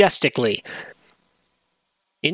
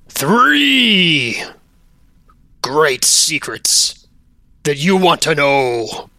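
slow mock-menacing ghost voice; Spooky Wisp; slower than usual. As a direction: threaten in a drawn-out spooky voice. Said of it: "it calls out to you".

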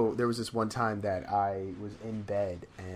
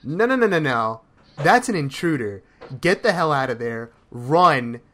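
panicked inner voice; 2 semitones higher, 7 dB louder than usual. Retold or imitated. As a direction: voice the brain's panic over an intruder. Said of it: "the second part of my brain goes".

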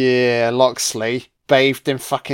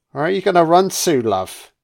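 higher, louder, fast mocking taunt; taunting Sheriff; 6 semitones higher, 3 dB louder than usual. Sheriff calling after fleeing Marion, mock taunt. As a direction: chase her down with a sneering call.

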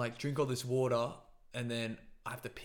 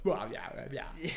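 put-on Aussie bloke accent. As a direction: do a laid-back Aussie bloke. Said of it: "You can even hear in his voice".

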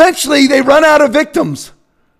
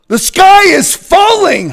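mock panic; 8 semitones higher, 3 dB louder, slower than usual. Mocking alarmist media.

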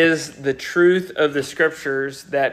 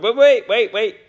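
hesitant protest; 3 semitones higher, faster than usual. Retold or imitated. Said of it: "a hesitation to voice to the Lord".

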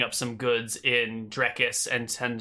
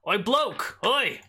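calling out; 7 semitones higher, slower than usual. Acted. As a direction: holler at the passer-by. GM voices heckling farmer calling out.

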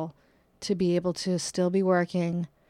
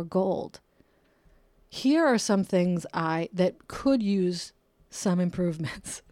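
mock fan letter. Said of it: "I want it to be addressed like".

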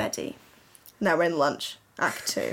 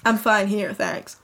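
put-on accent of a singer. Reader voicing her fanfic crush on request, a singer's accent. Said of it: "do you not want the Harry accent?".

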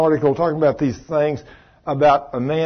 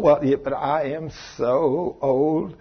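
mock whiny woman; 5 dB quieter, slower than usual. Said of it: "especially women".

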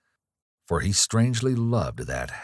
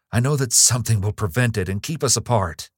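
louder, higher, hurried foreboding; distressed; 5 semitones higher, 5 dB louder, faster than usual. Acted. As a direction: blurt it out fast in distress. Distressed outburst continues.

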